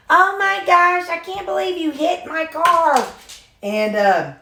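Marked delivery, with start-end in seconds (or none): 0.1-3.1 shocked outrage. Retold or imitated. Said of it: "She's like".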